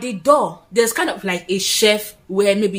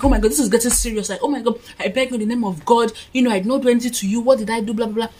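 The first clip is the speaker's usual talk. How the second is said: higher, rushed mock pleading; retold begging; 3 semitones higher, much faster than usual. Woman retelling how she begged the man with the knife, hurried begging. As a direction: plead in a hurry, retelling it lightly. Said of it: "I started begging him and crying".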